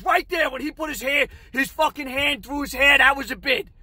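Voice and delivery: high, worked-up manager imitation; agitated insistence. Manager argues his point excitedly.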